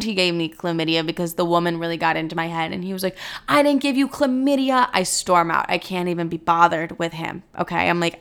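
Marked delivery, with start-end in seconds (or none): 3.5-4.9 high-pitched indignant protest; mock protest in a raised pitch; mad denial. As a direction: imitate an outraged boyfriend denying it. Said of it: "his reaction of getting so mad".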